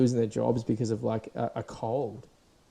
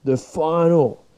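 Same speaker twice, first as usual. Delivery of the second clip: dramatic trailer voice; 3 semitones higher, 5 dB louder, much slower than usual. Retold or imitated. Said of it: "the advert's always like".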